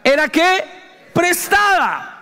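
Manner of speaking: anguished cry rising to a slow, drawn-out "Prestada"; dismayed cry. Retold or imitated. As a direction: cry out in dismay over the lost borrowed axe. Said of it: "Y gritó diciendo". (grito angustiado y exagerado)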